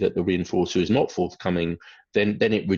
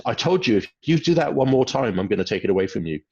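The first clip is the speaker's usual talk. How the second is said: lightly voiced exasperated parent; exasperated parent repeating a warning; 3 semitones higher than usual. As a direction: play the fed-up parent who repeats the threat. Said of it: "and the parent says".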